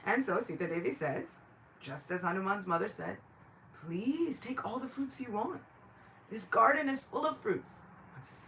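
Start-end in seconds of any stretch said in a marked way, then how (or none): 3.7-7.8 gracious mother's voice. Acted. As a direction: offer it sweetly in a higher pitch. Sita generously answers hungry Hanuman.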